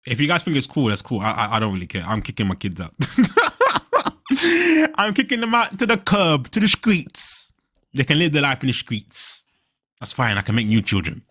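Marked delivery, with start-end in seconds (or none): 4.3-7.5 words through a high laugh; cracking up at own joke. Real, not acted. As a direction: giggle it out, dragging the last words slow.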